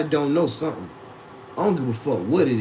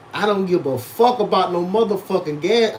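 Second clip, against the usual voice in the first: raised, defiant snap at mom; 3 semitones higher than usual. Retold or imitated. Telling his mom off about gas, defiant and raised. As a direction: blurt it out bold and disrespectful. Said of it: "I'd be like, "Mom".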